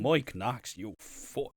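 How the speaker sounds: Irish take on the farmer line; mock Irish. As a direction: say it in a broad Irish lilt. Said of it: "that's just Irish now".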